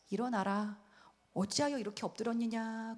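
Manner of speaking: softly soothing voice of God; gentle, comforting. Acted. God comforting weeping Joshua and the elders, gentle. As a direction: comfort as if patting someone on the back. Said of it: "그러면서 토닥토닥 찾아오신 거예요".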